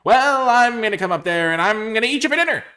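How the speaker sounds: high, loud troll threat; hammed-up, hungry storybook troll; mean old troll. Troll threatening to eat the goat, loud theatrical menace. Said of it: "said the troll".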